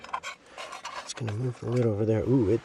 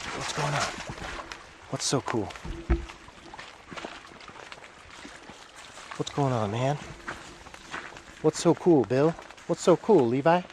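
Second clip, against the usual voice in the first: 1 voicing goats; 6 semitones higher than usual. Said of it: "They're like".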